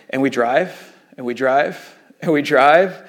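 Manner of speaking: slow, spaced-out refrain; slow storytelling beat, hanging at each drive; drawn-out repetition. Real, not acted. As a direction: stretch each repeat to show the drive dragging on. Retelling an endless desert drive.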